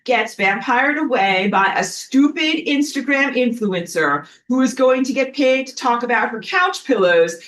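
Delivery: hammed-up sun villain; mock evil sun. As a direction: gloat and threaten like a cartoon villain. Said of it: "I don't know if I did a good job of acting that out".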